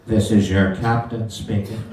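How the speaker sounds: captain's voice. Pretend. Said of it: "It's me doing the captain's voice".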